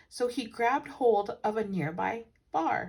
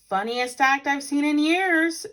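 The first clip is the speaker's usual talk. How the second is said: high, loud delighted call; shouting; 7 semitones higher, 8 dB louder than usual. Acted. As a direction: cheer from the crowd. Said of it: "shouted a man near the Browns".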